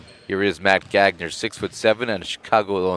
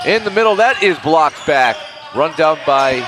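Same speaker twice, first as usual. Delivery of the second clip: much higher and louder, slowing on the block; excited call; 8 semitones higher, 4 dB louder than usual. Real, not acted. Announcer calling a blocked ball, high and excited.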